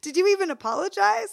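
can't believe they skipped the apology; incredulous. Retold or imitated.

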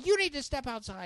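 loud, high mock order; stern studio staffer. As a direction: imitate someone throwing him out. Staff order him out, retold.

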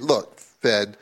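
half-playful scolding of the Fed; mock plea to the Fed. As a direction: tell the Fed to just rip it off. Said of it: "there's a good argument saying".

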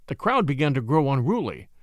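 plain reading voice

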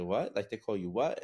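mildly imitating a startled listener, rising questions; taken aback. People hearing his nickname, mildly taken aback. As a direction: echo it back in mock disbelief. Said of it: "everybody would just be taken aback".

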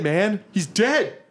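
high shocked cry about the Emperor; stunned disbelief. Acted. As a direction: pitch jumps high in shock. NPC shocked at Emperor's death.

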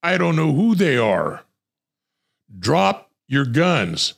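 hammed-up rookie barking; mock stubborn command. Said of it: "He then responds and says".

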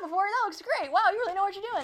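high-pitched chatty enthusiasm, imitated; gushing praise. Retold gushing at bartender.

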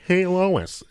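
high, loud cartoon dad with cackle; Peter Griffin. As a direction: call out as the cartoon dad, then his chuckle. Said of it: "I can do Peter Griffin".

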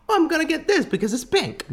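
put-on high girly voice, laughing; woman impression. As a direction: mimic a shopper swooning over pink. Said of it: "Is that your woman impression?".

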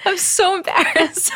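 high, slow, mock-mortified voice; mock embarrassed. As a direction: squeal it, fake embarrassed.

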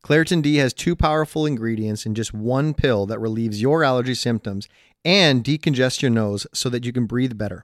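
upbeat sponsor-read delivery. Acted. Podcast host selling allergy relief, ad read. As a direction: pitch the product to listeners.

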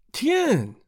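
high French exclamation; startled detective's high-pitched cry; Poirot. A narrator's reading. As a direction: cry out in sudden realization, French accent. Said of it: "cried Poirot".

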